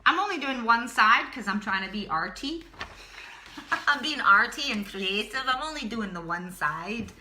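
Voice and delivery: light hint of a Scottish accent; a playful touch of Scottish. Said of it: "And that was my Scottish accent".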